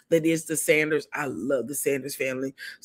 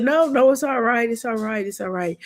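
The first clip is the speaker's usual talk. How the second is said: reassuring husband, retold; 6 semitones higher than usual. Husband to tearful wife, reassuring her. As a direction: imitate a husband soothing, easing down as you repeat.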